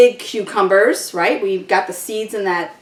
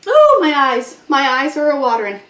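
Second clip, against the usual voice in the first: milder teary complaint; fading onion-sting lament; teary from chopping onions; 3 semitones higher than usual. Real, not acted.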